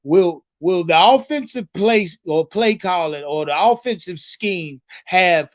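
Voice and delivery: low, deliberate quoted question; lightly imitated press question; quoting the reporter. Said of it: "That's how he asked him".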